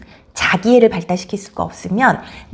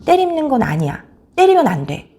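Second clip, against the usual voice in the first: firm parental "no"; acted steady correction; firm limit-setting; 4 semitones higher than usual. Shown as a demonstration. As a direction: put the brakes on the child clearly. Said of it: "가하게 브레이크를 걸어주셔야".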